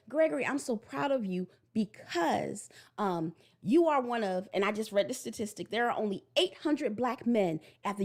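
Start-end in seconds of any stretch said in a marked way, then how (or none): 0.1-4.5 slow, sincere praise; specific praise. Shown as a demonstration. Mother telling her son exactly why she's proud, sincere. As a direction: say it meaning every word. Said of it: "And I say".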